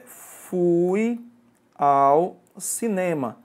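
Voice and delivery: slow, careful example read; slow example sentence. Shown as a demonstration. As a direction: lay out the example sentence word by word. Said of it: "se eu digo assim".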